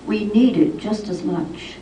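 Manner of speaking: measured verse with falling line ends; poem reading. Acted. Poet telling of Julian of Norwich, measured poetry reading. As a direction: recite it line by line, pausing between phrases.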